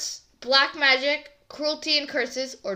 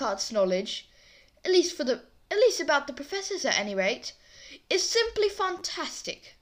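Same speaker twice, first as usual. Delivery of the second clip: light attempt at a British accent; 5 semitones higher than usual. Shown as a demonstration. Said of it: "reading that in a British accent".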